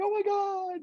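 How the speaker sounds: high-pitched mock child excitement; acted toddler thrill; three-year-old's sudden delight. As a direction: squeal it like an excited little kid. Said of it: "like a three-year-old".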